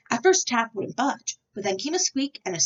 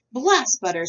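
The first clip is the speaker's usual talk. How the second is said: loud dismissal; 4 semitones higher, 6 dB louder than usual. A narrator's reading. Said Taft.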